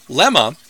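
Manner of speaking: "Lema" said LEH-muh, first half stressed; stress on first syllable. Shown as a demonstration. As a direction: rhymes with Emma, LEH-muh. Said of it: "accent on the first half of the word".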